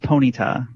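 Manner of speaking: Ponyta said as PO-nee-ta; tentative pronunciation. Shown as a demonstration. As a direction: offer Ponyta carefully as "pony-ta". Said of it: "I believe it's pronounced".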